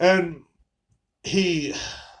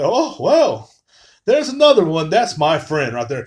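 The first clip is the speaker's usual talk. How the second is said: higher, louder mocking voice of a proud Trump fan; 3 semitones higher, 5 dB louder than usual. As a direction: lightly ham up the fan pointing out his friend. Voicing the Trump fan's reaction.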